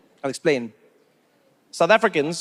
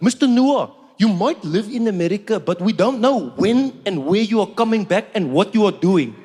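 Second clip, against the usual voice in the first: South African official. Retold or imitated. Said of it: "is like".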